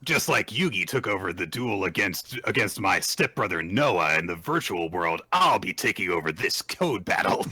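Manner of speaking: lightly voiced Kaiba, smug and grand; a hint of a rival stepping into the duel; Kaiba impression. The speaker citing Yugi's duel in a light Kaiba voice. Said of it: "being Kaiba".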